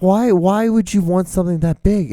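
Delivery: high, incredulous questioning; mock bafflement. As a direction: act baffled, pitch jumping up on why. Imagined baffled reaction to cookies.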